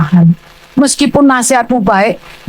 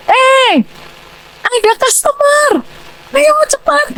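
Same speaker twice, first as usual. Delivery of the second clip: high call across the house; 14 semitones higher, slower than usual. Retold or imitated. Family member calls from the shop front to the house, high call. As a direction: call to the back room that a customer is here. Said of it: "itu kita harus teriak".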